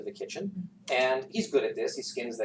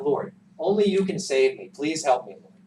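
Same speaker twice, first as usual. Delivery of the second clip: calling out for help; 3 semitones higher, 6 dB louder than usual. Acted. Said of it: "And he calls out".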